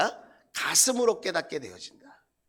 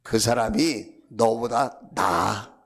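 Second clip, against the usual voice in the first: low, slow divine answer; measured reply from above; voice of God; 8 semitones lower, slower than usual. Retold or imitated. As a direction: answer calmly and weightily, spacing the words. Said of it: "어떤 감동을 주시냐면".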